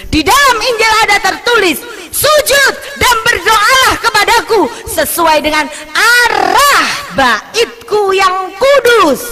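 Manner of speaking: fervent shouted Bible quote; preaching at full force. Acted. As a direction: proclaim the verse from the pulpit. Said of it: "preacher quoting scripture".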